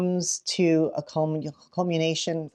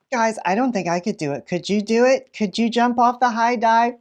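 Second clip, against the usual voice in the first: suspenseful teasing; 5 semitones higher than usual. Shown as a demonstration. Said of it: "build anticipation".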